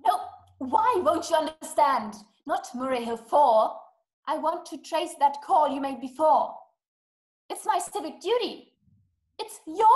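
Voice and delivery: insistent, rising exasperation; indignant. Acted. Caller insists operator trace the killers' call, indignant. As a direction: press the demand with indignant emphasis.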